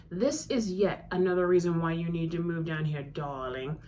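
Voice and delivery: a light hint of a French accent on darling; mildly put-on French lilt; playful faint French accent; turned-up French accent. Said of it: "with a turned-up French accent".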